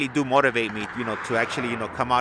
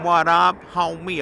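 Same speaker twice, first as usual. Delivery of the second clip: "What up, homie?" called out higher and louder; loud greeting demo; 6 semitones higher, 7 dB louder, slower than usual. Shown as a demonstration. Teaching viewers how to greet homies, loud hearty call. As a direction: belt it like hailing a friend across the street. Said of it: "Just tell 'em".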